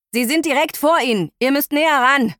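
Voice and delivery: scratchy radio voice; over walkie talkie. Acted. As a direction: crackly voice through a two-way radio. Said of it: "Heukürs Stimme tönt kratzig aus dem Funkgerät".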